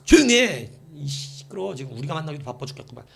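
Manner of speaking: mock-irritated bystander; acted scolding. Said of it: "이러면서 막 꾸짖고".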